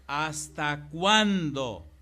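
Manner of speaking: loud, drawn-out reading of God's complaint, very slow on "¿Hasta cuándo"; preaching scripture. Acted. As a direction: proclaim the verse with weight. Pastor reads God's words aloud. (lectura predicada, fuerte y muy lenta)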